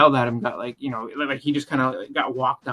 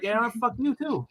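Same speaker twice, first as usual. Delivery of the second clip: sarcastic snark; 10 semitones higher, 4 dB quieter, slower than usual. Retold or imitated. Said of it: "And I was like".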